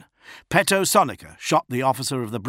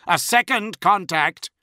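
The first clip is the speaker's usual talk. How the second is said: alarmed shout; 10 semitones higher, 6 dB louder than usual. A narrator's reading. Officer alarm.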